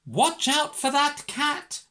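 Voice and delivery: loud, high alarmed call; shouted warning. A narrator's reading. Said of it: "shouted the vet".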